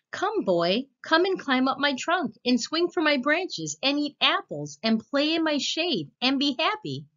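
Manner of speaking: put-on high, eager tree voice calling the boy; loving tree.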